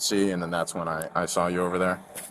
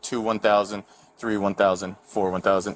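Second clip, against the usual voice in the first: steady counting; 2 semitones lower than usual. Shown as a demonstration. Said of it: "count to thirty in this fashion".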